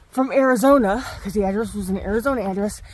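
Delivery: breathless from the climb; panting between words; out of breath. Real, not acted. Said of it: "sorry, out of breath".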